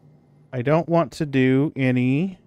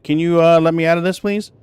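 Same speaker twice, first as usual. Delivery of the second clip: voicing the cat; 5 semitones higher, 4 dB louder than usual. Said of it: "look at me like".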